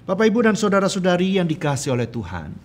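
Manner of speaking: loud, high-pitched preaching; khotbah berapi-api. Real, not acted. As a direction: drive the message home to the congregation. Preaches with rising force. (berkhotbah lantang dengan nada tinggi)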